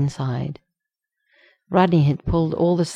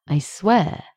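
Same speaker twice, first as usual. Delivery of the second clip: slightly higher, earnest vow; sincere; 4 semitones higher than usual. A narrator's reading. John reassures Rodney he won't leave, sincere vow. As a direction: swear it earnestly. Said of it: "meaning it sincerely".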